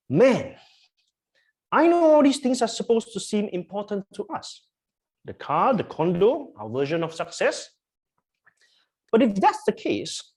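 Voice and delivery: lightly put-on American accent, animated delivery; attempted American accent. Preacher quoting a famous American actor to the congregation, attempted American accent. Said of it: "in my best American accent".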